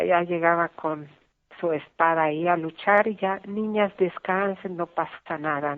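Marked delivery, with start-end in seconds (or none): 3.5-5.8 put-on calm the frightened girls gently; soothing father. Father calming scared daughters at night.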